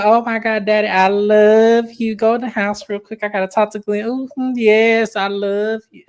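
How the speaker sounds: a hint of syrupy Letitia; mock sweet Letitia. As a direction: coo it like a phony daughter. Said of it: "She go".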